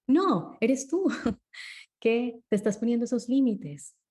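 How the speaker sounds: laughing correction of the listener; excited insistence. Real, not acted. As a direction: burst out laughing that it is you. Contradicting the listener's belief.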